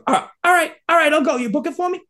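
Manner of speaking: high, meek caving in; Ernie. Retold or imitated. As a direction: imitate a tough guy suddenly backing down. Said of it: "And Ernie just goes".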